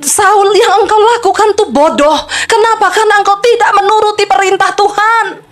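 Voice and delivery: preacher voicing a prophet's reproach, lightly acted; lightly voiced Samuel. Prophet Samuel scolds King Saul for disobeying, lightly acted rebuke. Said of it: "Samuel berkata".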